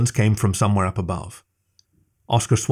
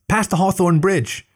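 high, slow call across the water; calling out slowly; 9 semitones higher, slower than usual. A narrator's reading. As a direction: stretch it out so he hears over the river. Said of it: "she called at his back".

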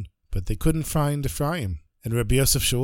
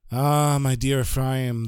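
otherworldly rebbe; slower than usual. Acted. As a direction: speak gently from beyond. Rebbe's voice from heaven.

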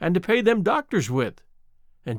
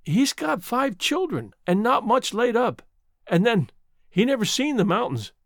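apologetic; 6 semitones higher than usual. Acted. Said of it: "she added apologetically".

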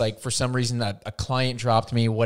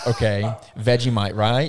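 put-on Australian accent; 4 dB louder than usual. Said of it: "How's his accent?".

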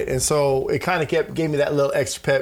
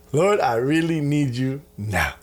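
mock desperate prayer; slower than usual. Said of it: "I'm like".

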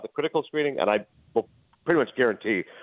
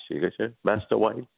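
Michael Caine as Alfred. Shown as a demonstration. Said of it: "everyone's got a Michael Caine impression".

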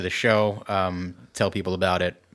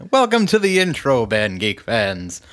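announcer voice; 4 dB louder, slower than usual. Acted. Playful show intro greeting.

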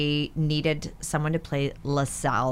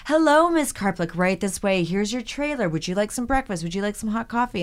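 fawning crew; 5 semitones higher than usual. Retold or imitated. Crew now fawning over her.

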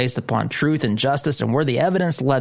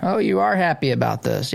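mocking jeer; 8 semitones higher, slower than usual. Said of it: "Republicans were the ones".

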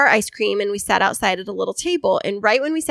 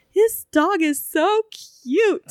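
imitating a little boy; 9 semitones higher, much slower than usual. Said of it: "he's like".

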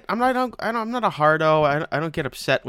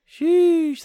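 laughing squeal; 6 dB louder than usual. Pretend. Third sheesh, laughing.

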